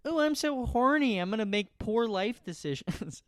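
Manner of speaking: high lustful ooh; horny voice. Retold or imitated. Adult at home admitting desire, high lustful voice. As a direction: moan with mock desperation. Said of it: "horny at home".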